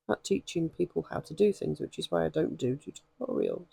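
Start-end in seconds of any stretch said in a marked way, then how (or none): 1.8-3.7 losing the voice mid-sentence; voice going. Real, not acted. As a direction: voice cracking and giving out. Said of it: "my voice is going".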